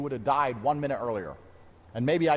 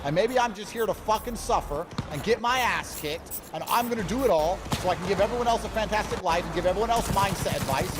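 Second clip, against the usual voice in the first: higher, strained voice on the edge of crying; near tears; 7 semitones higher than usual. Real, not acted. Fighter laments his loss to viewers, close to crying. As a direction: push through as if the tears are coming. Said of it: "it sounds like he almost starts crying".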